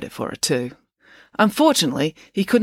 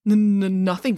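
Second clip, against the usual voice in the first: stammering; 5 semitones higher than usual. Acted. Joe denies everything to April, stammering. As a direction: stutter on "N-, n-, nothing". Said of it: "without stammering".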